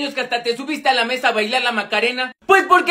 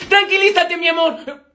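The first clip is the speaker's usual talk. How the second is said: calmar con urgencia; 3 semitones higher than usual. Acted. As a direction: try to calm your love mid-fight. Se le escapa un apodo cariñoso. (súplica apurada y cariñosa)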